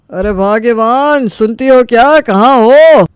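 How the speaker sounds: calling out loud. Acted. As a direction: shout for her from the other room. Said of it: "काहे चिल्ला रहे हो". (ज़ोर से पत्नी को पुकारना)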